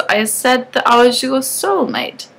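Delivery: put-on slow, stressed words as if to a naive girl; emphasized, patronizing. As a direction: spell it out patiently. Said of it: "He emphasized the words like I was naive".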